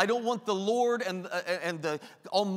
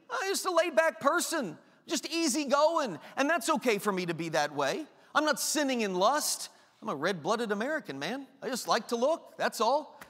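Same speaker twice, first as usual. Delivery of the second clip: a touch of casual self-excuse; mock laid-back excuse. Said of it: "pride justifying our sin".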